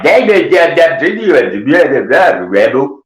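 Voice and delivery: loud, high gibberish caricature; mock unintelligible rant; Glenn. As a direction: babble it incomprehensibly, starting high and easing down. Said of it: "I can't understand shit".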